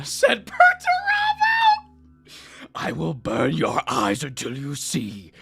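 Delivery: theatrical audiobook narration with voiced characters; dramatic story reading. Podcast host reading a novel to his cohost, dramatic narration.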